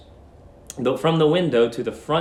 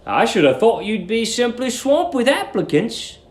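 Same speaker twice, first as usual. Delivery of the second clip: put-on lightly raised, polite young man; polite young Billy; 7 semitones higher than usual. Billy politely probing the landlady, light polite voice. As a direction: ask it politely. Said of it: "he said politely".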